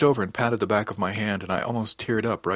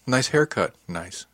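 flat polite nice; 4 semitones higher, slower than usual. Retold or imitated. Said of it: "It was more like".

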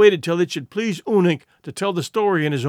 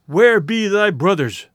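demanding; 3 semitones higher, 5 dB louder, slower than usual. Acted. Tai shakes him, demanding.

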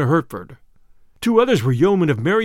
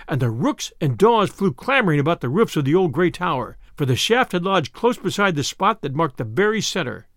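ordinary delivery, nothing marked

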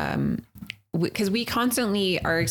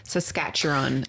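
put-on botched Australian accent; 3 semitones lower than usual. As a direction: attempt Australian and butcher it. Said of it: "I butchered it".

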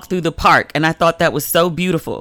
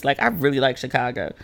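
softer, heartfelt affection; sincere fondness; 3 semitones lower, 5 dB quieter than usual. Real, not acted. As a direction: say it softly like you mean it. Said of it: "If you can hear it in my voice".

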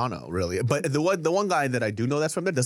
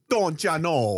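mock Minnesota accent; much slower than usual. Guessing wrongly at the Toronto accent, mock Minnesota accent. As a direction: put on a folksy Minnesota accent. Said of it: "No, no, that's Minnesota".

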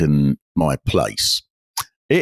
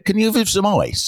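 insistent plea. Retold or imitated. Asking again, more urgently.

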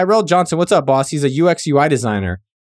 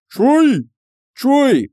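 excited call; 10 semitones higher than usual. Real, not acted. Excited calling out a fan's name.

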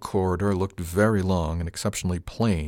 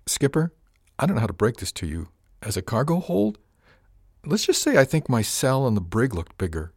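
put-on higher, teasing young crew woman; Miss Arione voiced; 5 semitones higher than usual. Crew mate teases captain about small hold, higher wry voice. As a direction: lift the voice and tease the skipper.

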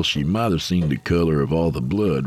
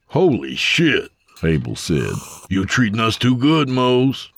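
amazed; 6 semitones higher than usual. A narrator's reading. Abel amazed at food.

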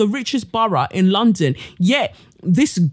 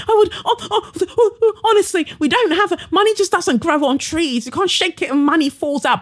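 high, laughing mimicry of a politician; laughing mockery; 8 semitones higher than usual. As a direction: laugh through a mocking impression of the excuse. Mocking the PM's excuse.

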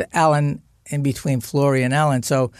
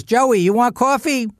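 mother calling out; 7 semitones higher than usual. Retold or imitated. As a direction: call from the door as if nothing happened. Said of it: "She goes".

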